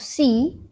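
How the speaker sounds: "sí" with a long drawn-out ee; long vowel. Shown as a demonstration. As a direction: stretch the vowel in "sí". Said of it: "lo hacemos largo".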